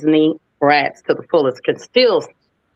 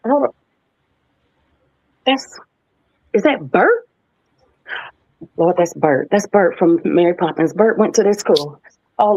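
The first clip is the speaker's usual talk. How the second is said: starstruck; 4 semitones higher than usual. Retold or imitated. Spotting Bert in the school hall.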